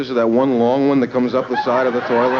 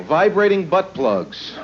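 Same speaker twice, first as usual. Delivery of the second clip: leering smutty joking; 5 semitones higher, much slower than usual. Acted. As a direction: drag it out and belt it. Punchline shouted slowly.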